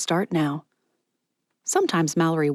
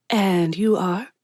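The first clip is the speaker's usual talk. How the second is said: slow, whispered and sweet; coy hushed question; 2 semitones higher, slower than usual. Acted. Ezra charming Miss Patty, hushed and coy. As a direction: lean in and coax.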